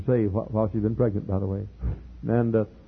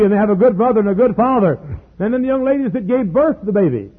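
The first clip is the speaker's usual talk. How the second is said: high, loud, ringing preacher's cry; preaching at full force; 9 semitones higher, 11 dB louder than usual. Acted. Preacher tells congregation of the adopted babies, full-force preaching. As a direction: lift it up and proclaim it to the back pew.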